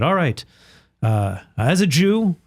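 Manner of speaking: put-on high-pitched rabbi with a Jewish accent. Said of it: "That is a great Jewish accent".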